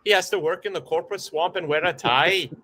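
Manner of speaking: a light, hammed Scottish accent. Reading the comment for the hosts, in mock Scottish accent. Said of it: "Can I do it in a Scottish accent".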